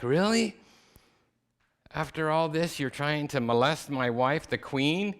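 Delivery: the king explodes in disbelief at the betrayal; furious king. Acted. King finding Haman on the queen, shouting in high outrage.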